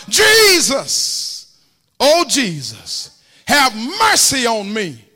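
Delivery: high, loud begging holler. Retold or imitated. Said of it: "started hollering louder".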